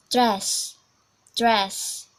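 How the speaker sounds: British "dress", short crisp vowel; demonstrated British "dress"; British accent. Shown as a demonstration. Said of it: "we are going to British English first".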